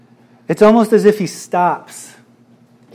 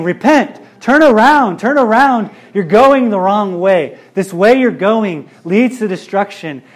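urgent plea; 2 semitones higher, 3 dB louder than usual. Retold or imitated. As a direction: plead loudly like a prophet calling the people. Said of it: "they're saying".

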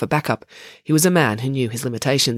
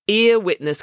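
pointed correction, higher pitch; correcting; 7 semitones higher, 4 dB louder, slower than usual. Acted. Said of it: "corrected April".

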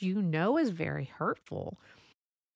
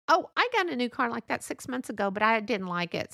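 breezy mock brag, raised pitch; one-upping friend; 5 semitones higher, 4 dB louder than usual. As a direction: act out a friend topping your news. Friend tops your news.

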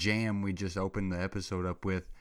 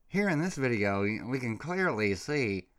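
mock calm official; 3 semitones higher than usual. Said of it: "calmly swapping".

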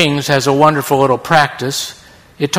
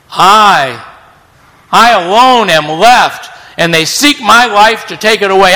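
proud whining Elijah; 5 semitones higher than usual. Acted. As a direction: plead as a hero who feels wronged. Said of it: "he answers proudly".

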